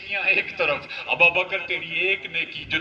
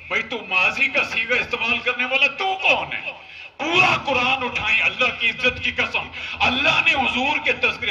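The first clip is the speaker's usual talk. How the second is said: impassioned rebuke; 4 semitones higher than usual. Real, not acted. Preacher rebukes disrespectful speech.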